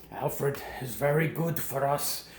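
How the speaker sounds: slow, put-on German accent; deliberate, phony German accent; fake German accent. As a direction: spell it out in a mock German accent. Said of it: "fake German accents".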